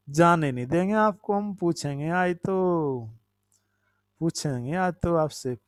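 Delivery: lightly imitated sing-song teacher; mock threat to a class, stretched phrase endings; teacher quizzing children. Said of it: "जब हम पढ़ाते थे बच्चों को".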